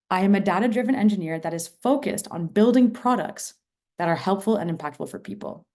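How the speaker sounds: "building" stressed with a falling tune, then "helpful" lifted; emphasis variant two. Shown as a demonstration. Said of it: "I'm gonna say it again three times".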